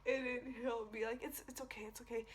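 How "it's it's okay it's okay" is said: softly retold comforting words; mild reassurance. Boyfriend comforting crying girlfriend, retold with mild reassurance. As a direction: soothe lightly, in a lowered volume.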